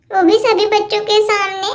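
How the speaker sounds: lightly voiced bickering kids, getting cross; squabbling little girls. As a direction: play two little girls fighting over a toy set. Cartoon kids quarrel over toys.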